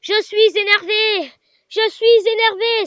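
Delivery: slow, drawn-out mock ghost voice; lightly voiced spooky ghost; imitating ghost voice. Retelling the night to viewers, a slow mock ghost voice. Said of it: "Le plus que j'ai entendu, c'est".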